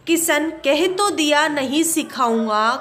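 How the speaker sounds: mildly angry father refusing; a touch of temper, flat refusal. Acted. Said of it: "गुस्से में कहता है". (हल्के गुस्से में मना करते हुए)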